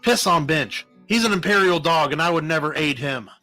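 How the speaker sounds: heated self-defense; angry denial. A narrator's reading. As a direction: spurn the very idea. Karna angrily denies helping Bench.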